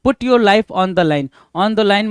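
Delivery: slow, word by word; slow dictation. Shown as a demonstration. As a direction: read out slowly for notes. Dictating idiom.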